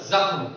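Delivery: जख्म as Urdu "zakhm", starting on a buzzing z; Urdu-style जख्म with a ringing first z; nukta pronunciation. Shown as a demonstration. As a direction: say जख्म with z in place of j. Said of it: "जब मैं जख्म का उच्चारण करूंगा".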